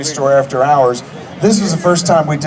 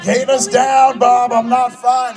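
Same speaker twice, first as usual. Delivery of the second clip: high, urgent mock panic; panicked plea; 10 semitones higher, slower than usual. Hanging actor begs stunt coordinator, imitated panicked call. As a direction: plead to be let down, pitch way up.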